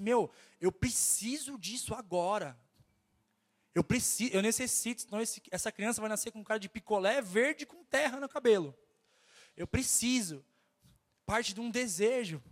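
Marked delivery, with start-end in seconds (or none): 0.0-10.4 a hint of a desperate pregnant woman begging; pregnant woman craving. Pastor imitating a pregnant woman's craving, lightly voiced. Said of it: "aquela grávida que fala assim".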